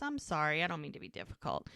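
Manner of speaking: soft, quick little apology; meek apology. Retold or imitated. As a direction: imitate someone backing down quietly.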